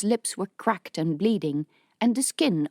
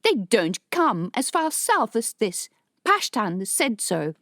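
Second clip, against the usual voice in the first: indignant; 5 semitones higher than usual. Acted. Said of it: "her voice indignant".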